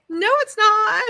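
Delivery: high, loud, emphatic no; mock indignant retort. Her retort to someone saying it's okay, indignant. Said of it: "And I'm like".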